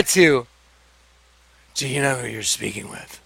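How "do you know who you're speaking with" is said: low, soft, ominous imitation of a threat; menacing entity voice. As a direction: drop the voice low and make it sinister. Alex's menacing reply, retold.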